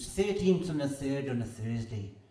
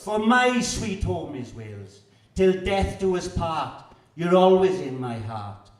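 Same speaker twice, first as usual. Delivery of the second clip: proud loud declaration; 3 semitones higher, 6 dB louder, slower than usual. Acted. Proud climax to Wales.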